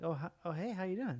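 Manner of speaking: hint of a chatty hairdresser; hair salon lady. Host modelling the salon lady's greeting, lightly imitated. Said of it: "younger lady who works at the hair salon".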